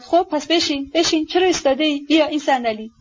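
high, urgent command at modest volume; mild shout. Acted. Woman orders sick youth to sit, mildly shouted. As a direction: call out insistently, pitch lifted. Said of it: "داد زد".

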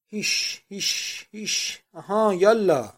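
high hissed shoos, then a loud drawn-out urge; shouted shooing. A narrator's reading. Painter egging Poiret on to follow, shouting. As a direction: shoo them along, ending in a loud call. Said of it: "فریاد زد".

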